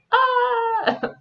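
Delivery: high, drawn-out reluctant "ahh"; mock groaning "ah". Cohost imitates people reviewing the movie, high drawn-out mock "ah". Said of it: "It sounds like people are like".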